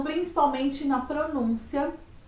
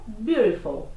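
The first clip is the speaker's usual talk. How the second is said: American English, flapped T; American accent; 3 semitones lower, slower than usual. Shown as a demonstration. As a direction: say beautiful as "byoo-dih-ful". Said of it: "No inglês americano".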